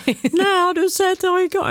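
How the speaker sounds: attempted Skåne accent, high and drawn out; skånska imitation. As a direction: badly mimic a Scanian dialect, slowly. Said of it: "Jag kan inte härma det heller". (försök att härma skånska, ljust och utdraget)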